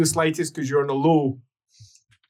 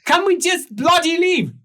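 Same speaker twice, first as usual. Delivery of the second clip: high, loud grumpy bargeman; Lucas voice; 4 dB louder than usual. Acted. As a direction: whine it out as a put-upon captain. Lucas complains.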